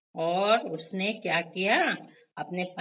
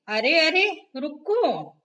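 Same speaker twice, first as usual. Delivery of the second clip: protesting mouse; 6 semitones higher, 5 dB louder than usual. A narrator's reading. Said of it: "टिनी फिर कहने लगी".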